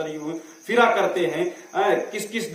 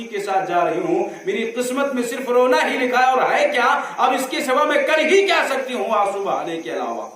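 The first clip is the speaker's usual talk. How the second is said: higher, pleading lament of a hopeless woman; despairing lament; 5 semitones higher than usual. Acted. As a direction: sound like she has given up. Despairing woman laments her fate. (مایوس عورت کا اونچی آواز میں فریاد کرنا)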